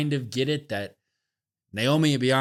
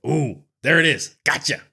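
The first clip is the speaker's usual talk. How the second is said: imagined fan reaction; 4 semitones higher, 6 dB louder than usual. Retold or imitated. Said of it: "You're like".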